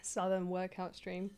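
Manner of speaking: whispered aside; a half-joking whisper. Real, not acted. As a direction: breathe it out under her breath.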